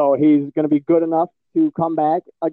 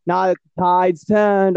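fake Philly accent; 4 semitones higher, slower than usual. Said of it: "I'm just throwing out all my fake accent".

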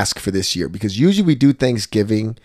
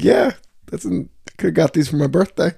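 sarcastic; 8 semitones higher than usual. Retold or imitated. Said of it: "I'm like".

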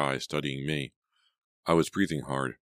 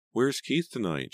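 higher, slower motherly question; mother asking; 9 semitones higher than usual. A narrator's reading. Mother asking daughter about Keith, high slow question. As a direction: lift the voice and take it slowly. Mother asks as she leaves.

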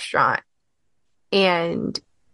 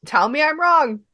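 defiant challenge; 7 semitones higher than usual. Shown as a demonstration. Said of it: "repeats her challenge".

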